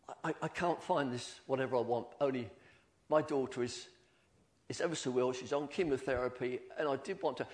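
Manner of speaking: soft, worried plea about a sick daughter; distressed plea. Retold or imitated. Customer in the shop pleading about her ill daughter, distressed. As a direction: speak low as if near tears. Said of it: "she was saying".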